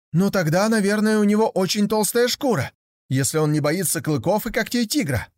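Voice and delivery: put-on high, eager young tiger voice; a curious cub wondering aloud; naive young tiger.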